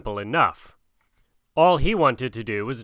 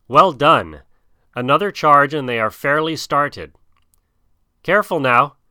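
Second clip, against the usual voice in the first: loud, raised urging over the herd; excited calling; 3 semitones higher, 5 dB louder than usual. Acted. Mowgli calls out to the wolves driving the stampeding herd, excited. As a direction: cheer the wolves on mid-chase.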